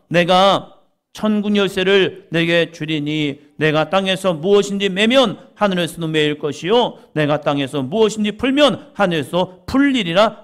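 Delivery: loud ringing scripture proclamation; preaching at full force. Acted. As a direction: proclaim the verse to the whole church. (힘차게 선포하는 설교)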